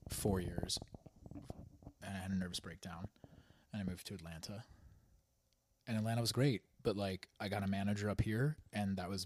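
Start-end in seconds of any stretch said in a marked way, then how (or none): 2.0-4.6 whispered. Real, not acted. Confiding a hard memory.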